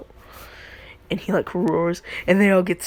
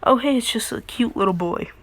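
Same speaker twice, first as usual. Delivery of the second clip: cooing; 5 semitones higher than usual. Retold or imitated. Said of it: "all the girls were thinking".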